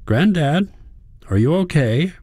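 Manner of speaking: high-pitched worried granddaughter; worked up. A narrator's reading. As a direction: ask it worked up with concern. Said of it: "She sounds worked up".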